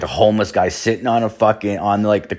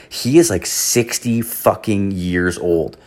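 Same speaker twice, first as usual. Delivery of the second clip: put-on scolding girlfriend; slower than usual. Girlfriend scolds him, quoted.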